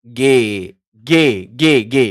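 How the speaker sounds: கே said as a clear "ge", repeated; teacher modelling கே; கே drill. Shown as a demonstration. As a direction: model கே for the class. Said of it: "அடுத்தது கே".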